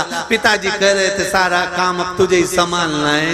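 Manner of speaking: mock tearful. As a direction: whine it like a son pretending grief. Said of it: "छोरा रोते रोते बोला".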